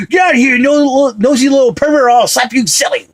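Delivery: high, loud angry threat; Uncle Frank. Acted. Film fan quoting the Home Alone sequel, angry yell. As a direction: yell it like a furious movie uncle. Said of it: "how about the second version".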